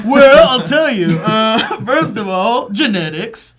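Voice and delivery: slow, laughing mock answer. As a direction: answer grandly while laughing.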